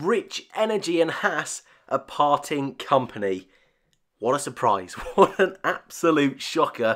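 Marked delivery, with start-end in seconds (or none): 4.2-7.0 feigned shock, sarcastic fake surprise. Opening with Formula One breaking news, the speaker reacts with sarcasm. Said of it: "if you can't sense the sarcasm".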